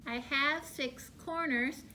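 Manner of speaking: mild bumblebee. Shown as a demonstration. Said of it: "Copy me".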